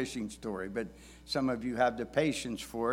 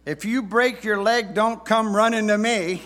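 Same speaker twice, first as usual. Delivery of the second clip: loud, high warning father; stern dad voice; 9 semitones higher, 10 dB louder than usual. Retold or imitated. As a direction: warn the kid like a dad. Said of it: "words that many dads have said".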